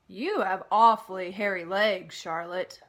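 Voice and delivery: put-on loud, eager young pig voice; Wilbur the pig. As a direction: play the excited little pig. Wilbur's voice in story.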